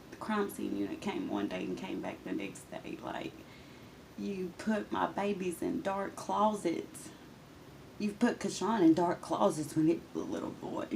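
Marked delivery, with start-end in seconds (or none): 4.2-10.9 accusing. Retold or imitated. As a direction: spell out each charge to the abuser. Confronting abuser in retold quote.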